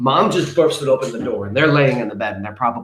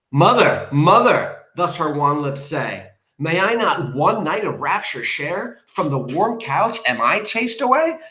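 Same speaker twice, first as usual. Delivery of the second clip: high, pleading verse reading; dramatic poem recitation; 4 semitones higher, slower than usual. A narrator's reading. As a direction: recite it as an appeal to mother.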